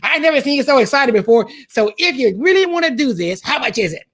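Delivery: high-pitched mock Italian accent; best Italian accent. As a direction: imitate an Italian rich dad, pitched well up. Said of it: "my best Italian, um, uh, Italian, uh, accent".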